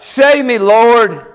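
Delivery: high, pleading call for rescue; crying out, acted. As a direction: act out a desperate cry for help. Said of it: "Peter cries out".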